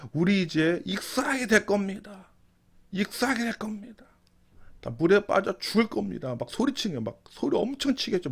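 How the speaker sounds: high, frantic plea; terrified shouting. Acted. Disciples shouting in terror on the sinking boat. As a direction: shriek out the fear of drowning.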